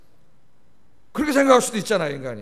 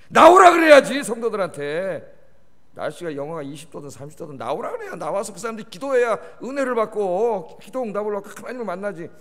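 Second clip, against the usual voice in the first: sudden loud scolding burst, then settling; scolding shout; 5 dB louder than usual. Retold or imitated. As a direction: bark it at yourself, then press the point. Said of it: "제가 자책을 했어요".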